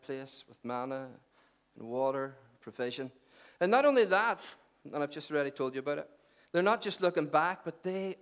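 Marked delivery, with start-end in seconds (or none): 3.6-4.4 raised, higher and louder; emphatic. Real, not acted. Preacher building to the next point, emphatic. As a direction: push it out high and loud.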